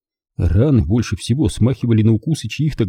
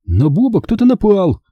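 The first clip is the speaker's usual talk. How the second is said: put-on high, alarmed boy's cry; distressed child raising the alarm; 10 semitones higher, 3 dB louder than usual. A narrator's reading. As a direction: call out the bad news high and urgent. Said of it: "выкрикнул Бенжи".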